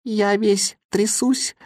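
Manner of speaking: high, slow shivering complaint; complaining boy. A narrator's reading. Little boy shivering on the freezing mountain, complaining. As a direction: whine it out shivering with cold. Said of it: "жаловался негритёнок".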